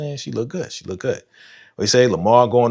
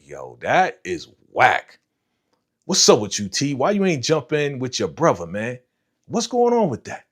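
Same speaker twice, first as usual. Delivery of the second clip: calling him out; 2 semitones higher than usual. Retold or imitated. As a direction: tell T off for not helping his brother. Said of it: "I was like".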